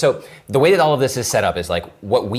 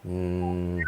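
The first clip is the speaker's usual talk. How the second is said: usual speaking voice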